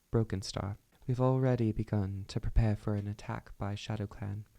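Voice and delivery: put-on amateur British accent; Blue Star. Leader addressing her clan about a threat, British accent. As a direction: declaim it in an imitated British accent. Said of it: "I'm distracted by my British accent".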